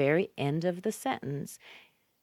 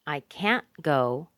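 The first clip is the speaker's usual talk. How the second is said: slow "can't" cut short, then "go"; stressed "can't" with swallowed t; strong unreduced CAN'T; slower than usual. Shown as a demonstration. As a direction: equal weight on "can't" and "go". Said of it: "That's where you'll hear the difference".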